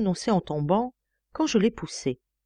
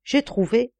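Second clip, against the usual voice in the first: eureka cry; 6 semitones higher than usual. Acted. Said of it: "du ton dont Archimède crut crier".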